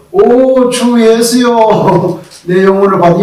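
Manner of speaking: high, drawn-out cry to the Lord; believer's dying prayer. Acted. Believer's last words to Jesus, fervent drawn-out prayer. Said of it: "예수 믿는 사람의 마지막 말은".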